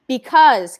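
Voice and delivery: sudden loud shout; a loud angry shout. Acted. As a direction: bark the word out at her. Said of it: "Kenny shouts".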